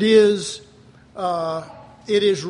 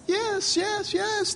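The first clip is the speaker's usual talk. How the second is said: emphatic yes; 13 semitones higher, much slower than usual. Real, not acted. Preacher answers own question.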